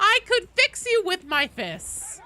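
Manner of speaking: high, loud, slow tough-guy line; game character impression. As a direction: growl it like a brawler. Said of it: "there's something I'm adding to my repertoire".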